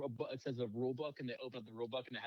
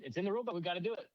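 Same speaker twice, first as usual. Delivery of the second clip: mock dumb alien; 7 semitones higher, 4 dB louder, faster than usual. Mocking dumb aliens, retold.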